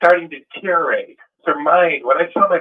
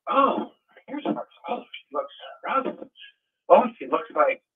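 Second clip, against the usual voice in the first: hushed dismay; 7 semitones higher, 5 dB quieter than usual. Retold or imitated. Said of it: "but I'd say".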